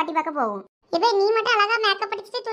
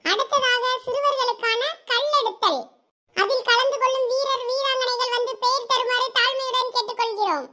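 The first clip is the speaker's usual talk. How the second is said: higher-pitched formal sports-day announcement; event announcer; 6 semitones higher than usual. Acted. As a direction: announce the races formally over the ground. (விளையாட்டுப் போட்டி அறிவிப்பாளர் குரல்)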